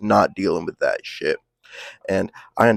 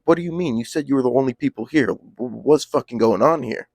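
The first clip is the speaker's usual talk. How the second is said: alarmed disbelief; 5 semitones higher than usual. Retold or imitated. Confronted, told to leave suddenly.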